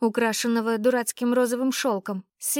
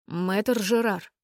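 commanding; much slower than usual. Acted. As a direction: call him out meaningfully. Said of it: "бровей лихо заломилась".

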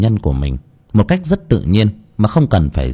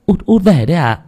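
high, put-on female voice; motherly question, pitched high; mother greeting son; 8 semitones higher than usual. A narrator's reading. Mother greets returning youngest son. (giọng má cao, hỏi con út mới về)

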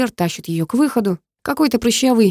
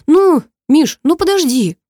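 put-on high, louder girl's plea; pleading girl; 8 semitones higher, 6 dB louder, slower than usual. A narrator's reading. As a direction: beg him to wait, pitched up. Girl pleads as she's dragged. (высокий девичий голос, громко и умоляюще)

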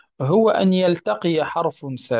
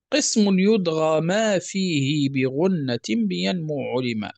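verse recitation. Acted. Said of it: "ثم قال".

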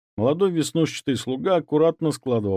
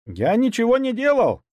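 much higher, shrieking denial; squealing; 13 semitones higher, 4 dB louder than usual. Acted. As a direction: squeal it in panic. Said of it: "взвизгнул он". (взвизгнуть в панике)

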